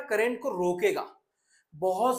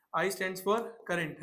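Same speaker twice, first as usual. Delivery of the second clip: each word drawn out very slowly; very slow dictation; 4 dB quieter, much slower than usual. Shown as a demonstration. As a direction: spell it out slowly for the class. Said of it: "teacher repeats slower". (धीरे-धीरे, शब्द-शब्द खींचकर)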